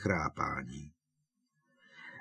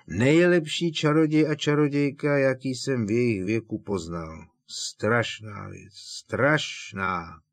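Hagrid's big voice, choking up over slow words; tearful Hagrid; 3 semitones higher, 5 dB louder than usual. Acted. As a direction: drunk giant crying over friends. Hagrid voiced, drunk and weeping. (uslzený Hagrid)

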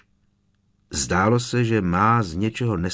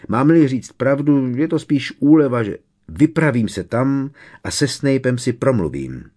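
raised, louder narrated anger; furious growl; 6 semitones higher, 6 dB louder than usual. A narrator's reading. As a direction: push it out with restrained fury. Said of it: "zavrčel vztekle Sirius".

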